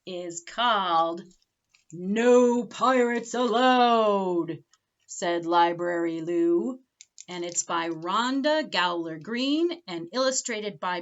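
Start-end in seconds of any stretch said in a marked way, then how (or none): 1.9-6.8 title read slowly. A narrator's reading. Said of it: "our next story is called".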